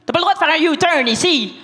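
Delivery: put-on a light Saguenay accent; lightly imitated Saguenay policewoman accent. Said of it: "de son plus bel accent saguenéen".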